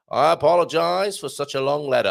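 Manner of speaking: lightly put-on old American voice; hint of a generic old-time American accent. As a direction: read it out in a mild mock old American accent. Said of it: "my generic old American voice".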